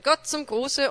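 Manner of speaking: beaming, bright greeting with a lift on Gott; hammed-up cheerful Gott zum Gruße, high and loud; joyful greeting. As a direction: greet like the happiest man alive. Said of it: "mit einem freudestrahlenden".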